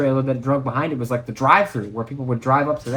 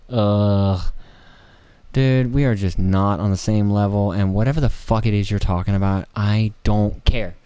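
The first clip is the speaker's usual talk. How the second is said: low, slow, blunt brush-off; 4 semitones lower, 4 dB louder, slower than usual. Pretend. Low, slow, bored brush-off to a chatty driver. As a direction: drop the voice low and drag it out, bored.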